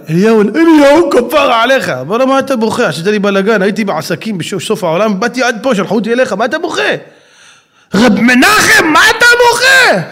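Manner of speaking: high, impatient busy prophet; a fussy Elijah rushing in; hurried prophet. Acted.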